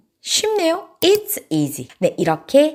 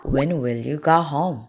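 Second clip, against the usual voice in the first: slow model sentence; 5 semitones lower, much slower than usual. Shown as a demonstration. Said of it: "집에 언제 갈 거야?".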